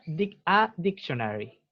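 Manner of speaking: "a dictionary" said slowly and carefully; slow teacher's model of "a dictionary"; pronunciation model. Shown as a demonstration. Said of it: "se pronuncia".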